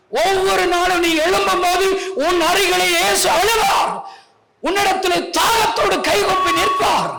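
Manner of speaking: loud, high impassioned shouting; fervent pulpit shout; full-force preaching. Real, not acted. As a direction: cry it out to the whole congregation.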